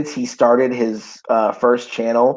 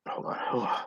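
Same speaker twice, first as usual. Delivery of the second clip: breathy "hold on, hold on" through hiccups; pausing to catch a hiccup; 13 dB quieter, faster than usual. Real, not acted. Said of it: "yeah, I have the hiccups".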